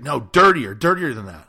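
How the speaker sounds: put-on girl urging him to be dirtier; insistent demand. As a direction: press her demand harder. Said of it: "she's like".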